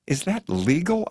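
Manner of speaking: high-pitched, startled question; blurted. A narrator's reading. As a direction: blurt it out in disbelief. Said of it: "I blurt".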